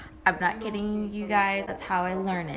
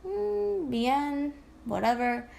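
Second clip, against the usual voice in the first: bored brush-off; 4 semitones higher, slower than usual. Shown as a demonstration. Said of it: "Instead of say".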